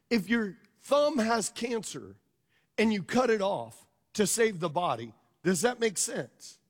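slow teaching question. Shown as a demonstration. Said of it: "Come on".

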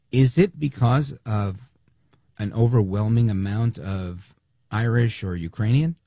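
sarcastic rhetorical question; slow, snide sarcasm. Real, not acted. Host mocking a senator's claim, snide sarcasm. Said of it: "I'm being snide".

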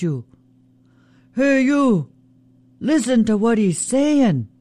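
high-pitched sly trickster Raven calling out. Acted. Raven voiced in a story.

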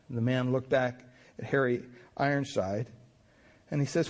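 usual speaking voice

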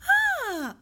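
high, loud cooing ah; a sudden high coo to a baby; sing-song coo. Shown as a demonstration. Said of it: "it's often quite sing-song".

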